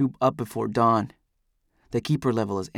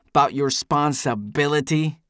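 "responsibility" hit syllable by syllable; every syllable stressed; 3 semitones higher than usual. A narrator's reading. Eldest scolding about duty, stressing every syllable of "responsibility". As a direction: jab out each syllable of "responsibility". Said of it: "stresses every syllable of the last word".

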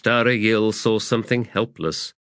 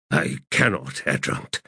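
shaken voice; 4 semitones lower than usual. Acted. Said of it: "in a shaken voice".

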